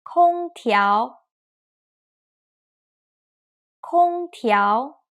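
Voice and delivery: slow drill of "空调", level then rising; first plus second tone. Shown as a demonstration. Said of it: "first tone plus second tone".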